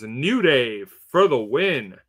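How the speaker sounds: drawn-out, slow announcement; slow showy pick reveal; announcer read. Acted. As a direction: stretch it out like a ring announcer. Reading picks like an announcer.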